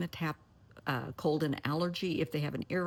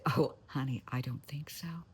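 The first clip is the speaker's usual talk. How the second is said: cool brush-off. Pretend.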